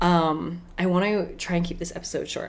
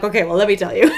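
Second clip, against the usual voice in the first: laughing; 2 semitones higher, 8 dB louder, faster than usual. Real, not acted. Laughs while answering friends.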